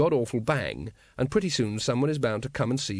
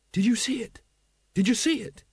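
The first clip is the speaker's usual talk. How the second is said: excited whisper; 10 semitones higher than usual. Acted. Carrot bursts in excited.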